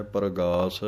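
ਪਰਗਾਸ with the r fully sounded; don't swallow the r in ਪਰਗਾਸ; full r sound. Shown as a demonstration. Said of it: "ਰਾਰਾ ਪੂਰਾ ਬੋਲਣਾ ਹੈ".

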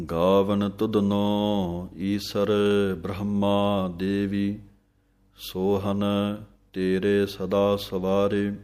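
slow, clear scripture reading with pauses; measured devotional santhya; slow Gurbani recitation. Shown as a demonstration. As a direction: recite line by line for students to follow. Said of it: "ਥੋੜ੍ਹੀ ਜਿਹੀ ਜਮਕ ਹੈ".

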